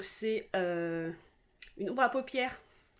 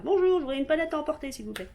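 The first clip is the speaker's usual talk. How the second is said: petite imitation de cliente qui commande, débit rapide; cliente au bar; 4 semitones higher, 5 dB louder, much faster than usual. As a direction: lancer la commande vite et plus haut, puis retomber. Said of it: "comme dans les bars". (cliente qui passe commande au comptoir)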